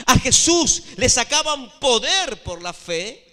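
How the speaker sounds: loud, driven sermon delivery; emphatic preaching. Real, not acted. Preacher tells congregation only faith moves Jesus, emphatic preaching. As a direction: hammer each phrase home to the congregation.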